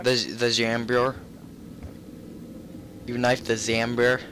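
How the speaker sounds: "Zambier" with an extra yer ending; mimicked mispronunciation. Gamer echoes friend's word for zombie, mimicking "Zambier". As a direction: echo the odd "Zambier", ending in byer. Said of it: "You called it a Zambier".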